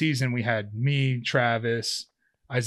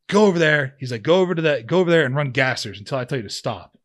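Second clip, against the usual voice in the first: coach yelling; 2 semitones higher, 6 dB louder than usual. Retold or imitated. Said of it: "screaming at me with his bullhorn".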